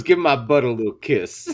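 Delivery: low-pitched mock come-on; a singer. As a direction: imitate him coaxing in a low voice. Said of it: "he goes".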